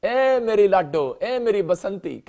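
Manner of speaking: slow, fond calling of pet names; lovingly pleading. Retold or imitated. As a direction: sweet-talk her like a lovesick husband. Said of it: "देखो कितनी प्यार से कह रहा है".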